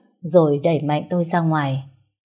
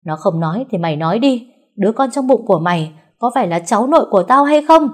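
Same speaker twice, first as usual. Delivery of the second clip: rising to a loud, higher demand; through gritted teeth; 4 semitones higher, 5 dB louder than usual. Acted. Mother-in-law interrogating the bride, seething. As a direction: grind out the question, then explode. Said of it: "nghiến răng nghiến lợi nói".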